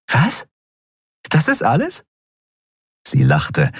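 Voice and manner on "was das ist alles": hoch und ungläubig; überrascht. Acted. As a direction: staunend nachfragen. (Kapitänin staunt über Kerus einzige Bedingung, hoch und ungläubig)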